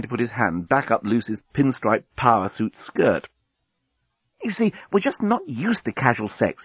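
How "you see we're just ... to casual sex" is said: alien journalist voice. Acted. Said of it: "he was assuring her".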